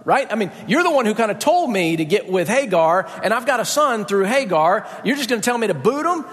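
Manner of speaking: Abraham's protest. Acted. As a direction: plead the case, rising into a quick incredulous question. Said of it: "Abraham says".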